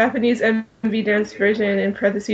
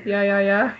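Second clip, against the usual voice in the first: laughing. Real, not acted. Laughing while saying the title.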